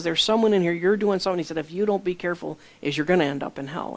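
normal talking voice

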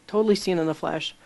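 normal talking voice

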